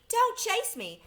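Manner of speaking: put-on a tiny china girl squealing in fright; frightened little voice. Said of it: "such a frightened little voice".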